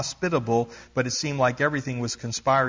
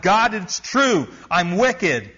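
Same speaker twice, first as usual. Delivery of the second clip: shouting to God; 4 semitones higher than usual. Retold or imitated. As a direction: call it up to heaven with everything. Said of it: "shouted up at God".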